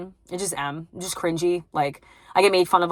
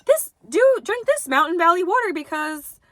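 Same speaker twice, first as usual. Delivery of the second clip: mock influencer ad read; 9 semitones higher, slower than usual. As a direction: ham up a fake paid endorsement, dragging it out.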